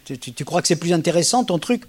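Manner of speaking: mild mock jackal jab; understated contemptuous jackal. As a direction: sneer lightly at the partner. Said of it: "je peux faire mon chacal aussi".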